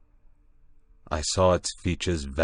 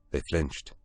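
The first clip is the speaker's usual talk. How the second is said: ordinary delivery, nothing marked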